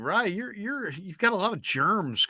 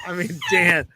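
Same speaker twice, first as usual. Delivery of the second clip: laughing plea; 5 dB louder, much slower than usual. Real, not acted. Teasing plea about a co-host.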